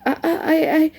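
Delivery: put-on high, breathless child's stammer; gasping. A narrator's reading. Small boy rushing into the kitchen, gasping to speak. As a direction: gasp the word over and over, out of breath. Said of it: "he gasps".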